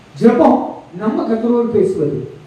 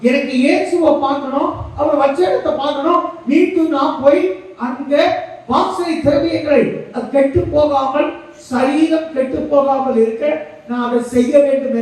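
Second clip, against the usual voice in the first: higher, earnest voice of a resolute woman, slowing in the middle; determined Mary; 5 semitones higher than usual. Acted. Pastor voicing Mary's resolve to find Jesus, earnest and higher. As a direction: speak as a woman set on finding her Lord.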